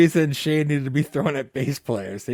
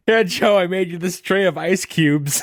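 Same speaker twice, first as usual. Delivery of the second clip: mock proud wife; 3 semitones higher, 3 dB louder than usual. Mimicking the wife serving food.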